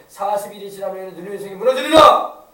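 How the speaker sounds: loud warning of doom to a city; prophetic cry. Acted. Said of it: "요나가 회개를 외치니까".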